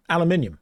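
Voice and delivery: "Aluminium" as al-yoo-MIN-ee-um; the British "Aluminium", five syllables; British pronunciation. Shown as a demonstration. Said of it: "How do you say aluminum".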